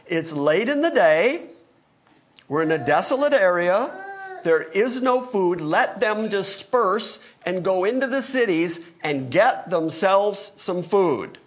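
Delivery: a touch of the disciples' alarm, slowing at the end; lightly acted worried disciples pleading logic; voicing the disciples. Preacher voicing disciples urging Jesus, mildly alarmed.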